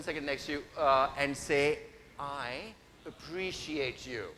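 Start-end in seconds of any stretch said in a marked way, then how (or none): 2.2-4.3 plain. Shown as a demonstration. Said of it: "say it like you mean it".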